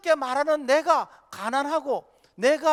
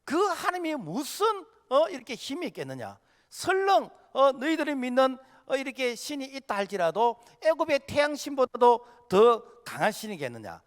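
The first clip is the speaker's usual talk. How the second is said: scornful Pharaoh; 3 semitones higher than usual. Retold or imitated. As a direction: imitate a ruler belittling someone else's god. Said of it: "하나님을 아주 비웃고 무시하는". (은근히 비웃고 무시하는 말투)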